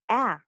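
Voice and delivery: A said as in tap; short A sound. Shown as a demonstration. Teacher introducing a vowel symbol, flat-out A as in ma'am. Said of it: "It represents the sound a".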